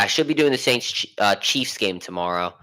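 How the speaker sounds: words blurred by a retainer; wearing a retainer. Real, not acted. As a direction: talk around a retainer in your mouth. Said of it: "I can't speak, I have my retainer in".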